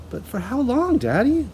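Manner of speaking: high, pleading cry; child pleading with her father; cried. A narrator's reading. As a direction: beg for an answer. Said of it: "Matilda cried".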